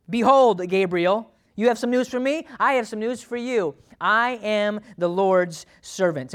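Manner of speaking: bold angelic-style proclamation; Mary. Acted. Mary giving Gabriel her news, proclaiming like an angel. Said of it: "I can talk like angels".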